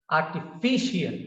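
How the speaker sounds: artificial with the stress on the third syllable fi. Shown as a demonstration. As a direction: say artificial as ar-ti-FI-cial. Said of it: "So the stress is on the".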